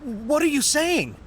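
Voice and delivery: slow, rising question of disbelief; surprised. Acted. General stunned by the new corps decree, slow disbelieving question. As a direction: let the shock pull the question up.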